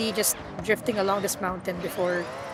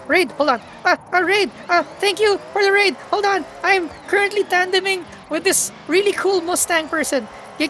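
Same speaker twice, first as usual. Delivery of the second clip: louder, higher flustered thanks; excited, flustered; 6 semitones higher, 4 dB louder than usual. Real, not acted. Streamer thanking raiders while still drifting, flustered. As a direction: rush through it, flustered and excited. Raid arrives mid tandem.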